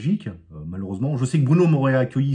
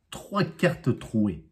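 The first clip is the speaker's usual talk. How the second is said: drawn out, very slow triumphant reveal; 4 dB quieter, much slower than usual. Shown as a demonstration. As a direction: spell out each word like a magician's finale. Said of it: "triumphant reveal slowly". (révélation très lente et triomphante)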